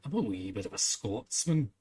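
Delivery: lightly put-on Scottish accent; a hint of jokey Scotsman; joke Scottish accent. Shown as a demonstration. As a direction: do a playful bit of Scots. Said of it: "this one was more of a joke".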